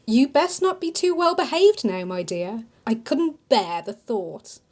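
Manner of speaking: a hint of a fond old auntie comforting her; kindly older woman. Older shopkeeper Diana consoling grieving Amelia, lightly voiced motherly.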